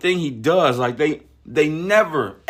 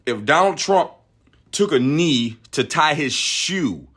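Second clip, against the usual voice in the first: ordinary talk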